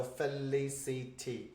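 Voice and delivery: Felicity said slowly and softly, every syllable level; slow, even syllables. Shown as a demonstration. Teacher slowly demonstrating a four-syllable name. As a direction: give each syllable of Felicity equal weight. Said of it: "someone who's got four syllables".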